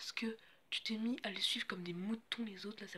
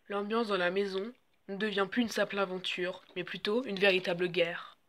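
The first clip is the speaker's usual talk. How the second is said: voice-over narration; 3 dB louder than usual. Acted. Reality show voice-over.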